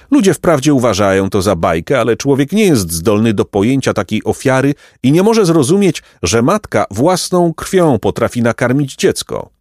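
solemn, self-important pelican; lofty pelican. A narrator's reading. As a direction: explain the sacrifice grandly. Story figure, pelican.

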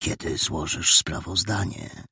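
put-on boy quizzing his friend in secret; mysterious whisper. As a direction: lean in and ask conspiratorially. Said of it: "tajemniczym szeptem".

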